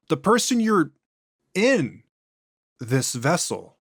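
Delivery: an ancient thing speaking through a man; eerie, unhurried entity; possessed alien voice. Acted. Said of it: "voice and inflections are noticeably different".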